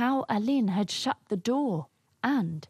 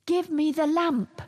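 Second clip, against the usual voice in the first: high, commanding call; narrated shout; 9 semitones higher, 4 dB louder than usual. A narrator's reading. Wizard demanding the lamp at the cave door, high shout. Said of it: "Alin shouted".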